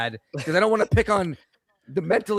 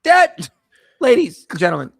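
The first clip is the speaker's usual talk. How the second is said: dramatic announcement; 7 dB louder than usual. Acted. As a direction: present it like a game-show host. Announcing a dumb moment dramatically.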